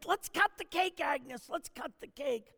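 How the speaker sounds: lightly voiced excited crowd, high then easing; eager urging. Party crowd urges Agnes at the counter, eagerly. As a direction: urge on the birthday girl.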